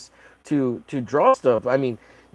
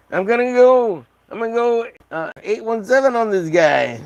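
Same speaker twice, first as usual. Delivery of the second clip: mock angry fan; 8 semitones higher than usual. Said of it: "they'll be like".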